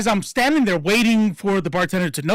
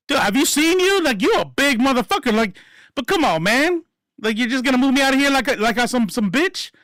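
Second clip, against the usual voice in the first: pleading protest; 6 semitones higher than usual. Retold or imitated. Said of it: "I'm like".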